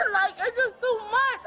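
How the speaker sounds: laughing through tears; a sob and a laugh mixed together; laugh-crying. Real, not acted. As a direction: crack up while crying.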